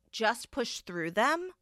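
slow, disbelieving repeat of the words; incredulous. Real, not acted. To the audience, repeating grandma's words in disbelief. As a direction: echo it back in disbelief.

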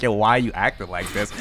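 soft, low, unbothered question; super calm. Retold or imitated. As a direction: keep it quiet and calm while imitating yourself. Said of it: "talking to them super calmly".

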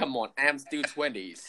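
whispering "Come on, I'm still twenties"; breathy whisper, half joking; whispered protest. Real, not acted. Teasing protest about age.

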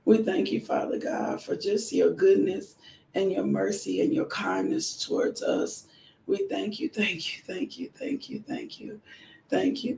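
intimate worship murmur to God; whispered prayer. Real, not acted. Opening prayer of devotional.

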